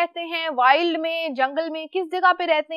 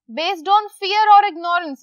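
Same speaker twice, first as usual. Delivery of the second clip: slow reading; 4 dB louder, much slower than usual. Shown as a demonstration. Reads definition slowly.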